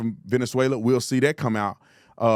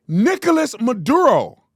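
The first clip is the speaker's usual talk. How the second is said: Nicolas Maduro slow, louder, overdone Spanish accent; exaggerated Spanish accent; 8 semitones higher, 4 dB louder than usual. Shown as a demonstration.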